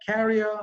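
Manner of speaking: "carrier" slow, as KA-ri-uh; corrected pronunciation. Shown as a demonstration. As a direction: say "carrier" stretched, with no final R. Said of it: "It should be".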